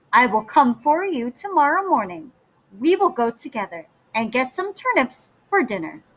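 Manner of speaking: quick, sly wolf voice. Acted. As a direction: rush the offer like a sly wolf. Wolf plotting, fast.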